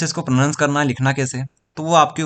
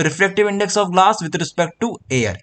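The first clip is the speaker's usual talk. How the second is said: "refractive index of glass with respect to air" said very slowly, each word apart; slow model pronunciation; 3 semitones higher, much slower than usual. Shown as a demonstration. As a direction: read it out slowly for the class. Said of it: "ये हम लोग यहाँ पर pronounce करने वाले हैं".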